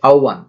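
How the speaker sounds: আহ্বান as "au-ban"; model pronunciation. Shown as a demonstration. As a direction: say আহ্বান with au in place of h. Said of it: "তারপর হচ্ছে আহ্বান".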